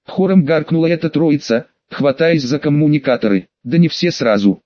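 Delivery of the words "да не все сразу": usual speaking voice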